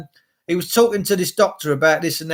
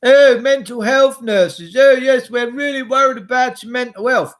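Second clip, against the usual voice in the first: mocking nurses; 5 semitones higher, 5 dB louder than usual. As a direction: ham up their pretend worry, dripping sarcasm. Mocking the mental health nurses.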